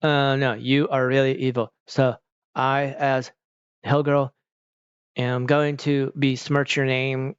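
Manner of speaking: mock stilted recital, broken into chunks; imitated wooden actor; memorized-line bad acting. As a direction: act badly, as if just repeating memorized words. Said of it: "just, like, memorized words and are repeating them".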